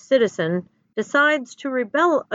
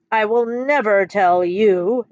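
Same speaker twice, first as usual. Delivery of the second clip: slow, louder, defiant refusal; yelled refusal; 5 dB louder, slower than usual. Acted. Emperor refuses the teacher, slow and loud. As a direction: spit it out word by word, a mild yell. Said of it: "Emperor Jonathan yells".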